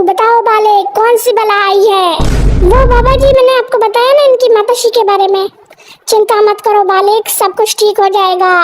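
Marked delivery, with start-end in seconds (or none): 0.0-2.2 slow, grave godman voice; lightly voiced baba. Baba character speaks. 6.1-8.6 lightly voiced baba. Baba reassures.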